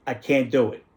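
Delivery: light imitation of Italian-accented English; a hint of an Italian immigrant; broken Italian accent. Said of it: "in a broken accent".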